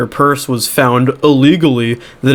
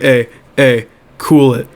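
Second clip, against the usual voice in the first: playing it cool. T L O to panicking Becky, playing it cool. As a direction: settle a panicking friend, unhurried.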